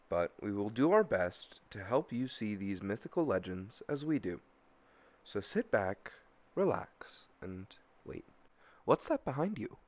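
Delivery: measured, deliberate scripted intro; podcast intro narration. Acted. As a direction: read it like a mystery show's opening.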